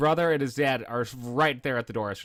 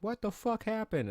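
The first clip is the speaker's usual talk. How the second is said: bully asking; 11 semitones higher, 4 dB quieter than usual. Retold or imitated. Bully asks.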